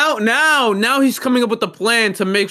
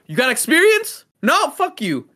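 lightly voiced dismissive employer, pitched up; mock employer; 6 semitones higher than usual. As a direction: imitate a recruiter brushing someone off. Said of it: "They're like".

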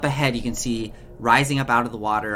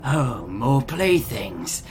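slow, smug, drawn out taunt; sly villain; much slower than usual. Acted. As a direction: savour the words like a cruel captor. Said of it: "They kinda smile and look at each other and go".

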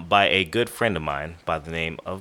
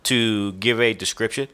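yawning; 3 semitones higher than usual. Real, not acted. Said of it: "I'm yawning".

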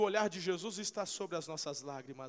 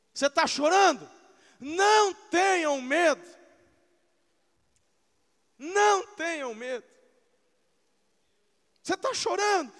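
preaching shout; 8 semitones higher, 12 dB louder than usual. Real, not acted. Preacher calling out to the weeping congregation, loud and high. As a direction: call out to the crying ones.

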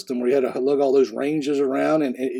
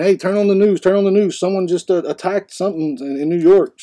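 retold urgent alert, higher-pitched; urgent announcement; 4 semitones higher than usual. Master sergeant bursting into the mess hall with news, urgent. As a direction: imitate someone rushing in with breaking news.

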